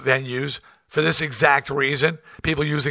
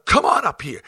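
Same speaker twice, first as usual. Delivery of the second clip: calling out; 3 semitones higher, 4 dB louder than usual. Retold or imitated. Challenging heckler to come on stage.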